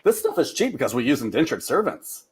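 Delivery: put-on light Scottish accent; slipping into a mock Scottish brogue. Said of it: "Okay, I went a little bit".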